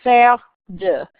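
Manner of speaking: faire de said slowly, fehr duh; French faire de. Shown as a demonstration. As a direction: model faire de carefully. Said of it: "talking about a sport or an activity".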